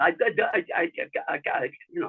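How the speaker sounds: slow, stuck, repeating stutter on I. Retelling a recording session where a man could not stop, imitating Joe's stutter. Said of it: "stuttering, and can't stop it".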